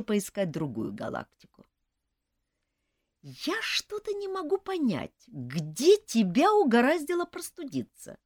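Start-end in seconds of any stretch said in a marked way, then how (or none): 3.2-8.2 sighing question. A narrator's reading. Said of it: "вздохнула я".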